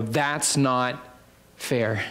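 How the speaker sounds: very slow, low protest; understated complaint. Acted. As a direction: draw out a low, measured objection. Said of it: "they would obviously say".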